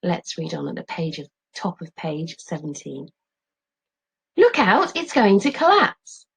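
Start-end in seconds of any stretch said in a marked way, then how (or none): 4.4-6.3 high, loud alarm; warning shout. Acted. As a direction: yell a warning. Warning as tent falls.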